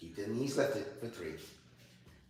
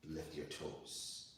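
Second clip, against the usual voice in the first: yoga class cueing; 3 semitones lower than usual. Acted. Yoga teacher cueing her student through poses, calm and unhurried.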